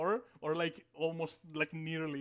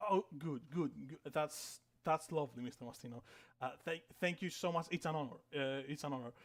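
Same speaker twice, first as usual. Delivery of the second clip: softly fawning, repeating the thanks; lightly acted meekness, dropping away softer; deferential employee; 2 semitones lower, 4 dB quieter than usual. Employee thanking Mister Mastino for the honor, meekly deferential. Employee fawns over the boss.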